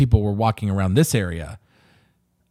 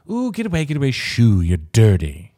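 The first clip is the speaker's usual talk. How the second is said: snooty shooing. Retold or imitated. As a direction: shoo them off like a snob. Mocking snobbish resident shooing people.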